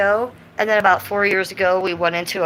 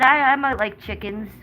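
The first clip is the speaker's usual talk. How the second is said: a hint of a sweet dog voice asking Mom; voicing the dog; 2 semitones higher than usual. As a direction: speak for the little dog. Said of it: "She said".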